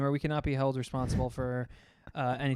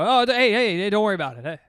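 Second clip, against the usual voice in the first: mock frantic reassurance; 6 semitones higher, 8 dB louder, faster than usual. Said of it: "So you go".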